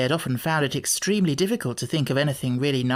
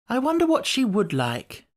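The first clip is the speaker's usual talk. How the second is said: a higher, lightly voiced boy wondering aloud; musing, thoughtful boy; pondering Cyril; 8 semitones higher than usual. A narrator's reading. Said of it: "pondered Cyril".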